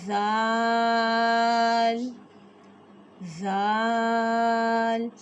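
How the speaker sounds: زال drawn out slow and soft; a gentle, slow زال; softly. Shown as a demonstration. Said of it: "زال کو ہم نے نرمی کے ساتھ پڑھنا ہے".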